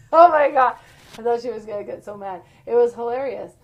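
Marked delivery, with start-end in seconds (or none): 0.1-0.8 bursting into loud laughter on oh my God; real loud laugh through the words; laughing loudly. Real, not acted. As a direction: laugh it out, can't believe it happened. Laughing at zombie twist story.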